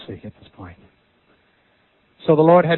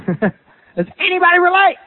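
asked again through a laugh, pitched higher; amused, higher repeat to the congregation; laughing question; 8 semitones higher than usual. Shown as a demonstration. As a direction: chuckle as you ask the room.

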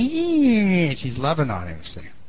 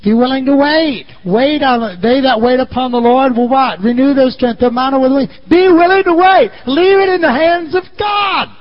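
louder, higher shouted exhortation; preaching loud; 6 semitones higher, 5 dB louder than usual. Real, not acted. Pastor shouting to the congregation to wait. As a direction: drive it home to the crowd.

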